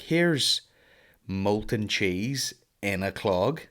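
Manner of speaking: serve the insult with slow, smug relish; mock German waiter. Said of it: "they're like".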